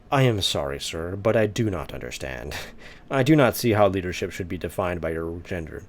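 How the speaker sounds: dramatic formal reading. Shown as a demonstration. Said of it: "trying to make him sound dramatic".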